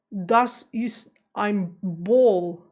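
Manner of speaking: put-on very slow, loud German with an American accent; exaggerated American accent in German, word by word. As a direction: imitate an American's German, drawing out "Ball". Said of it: "without an American accent".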